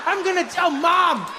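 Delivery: high, wailing accusation; hammed-up tearful child telling off a parent; outraged little kid. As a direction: squeal it like a betrayed kid. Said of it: "this kid was like".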